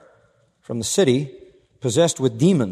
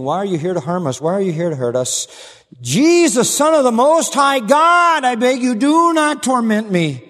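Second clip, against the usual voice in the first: demon screaming; 9 semitones higher, 6 dB louder than usual. Acted. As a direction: shriek a terrified plea for mercy. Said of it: "The screaming again in a loud voice".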